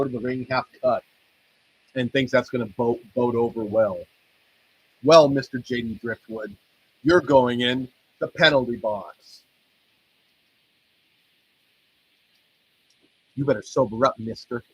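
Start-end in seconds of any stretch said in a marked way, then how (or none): 5.0-14.6 a hint of a stern referee sending him off; mock stern referee. Sending wrestler to the penalty box.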